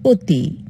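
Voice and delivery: অতি said as "oti", first vowel ও; অতি pronounced ওতি; said with o sound. Shown as a demonstration. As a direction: close the অ of অতি to an o. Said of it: "উচ্চারণ কি করব?".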